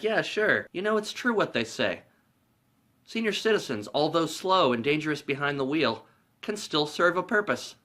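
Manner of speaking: a hint of a sweet old granny; old lady voice. Retelling the movie, old lady to Harry, lightly voiced granny.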